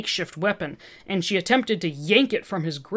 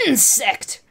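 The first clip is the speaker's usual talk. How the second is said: spat angry roar; 4 semitones higher, 3 dB louder than usual. Acted. Olivia roaring at Spider-Man, spitting anger. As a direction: spit the insult out. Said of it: "Olivia roared".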